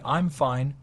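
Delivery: sharp, curt, clearly not fine. Shown as a demonstration. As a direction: snap it out with an edge. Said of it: "with sharpness".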